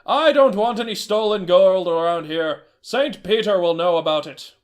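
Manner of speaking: a stern trader accusing a thief. Acted. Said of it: "the trader asked".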